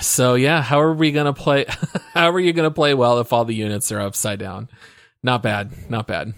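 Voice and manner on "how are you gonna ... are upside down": laughing. Real, not acted. Rereading quote with laughter.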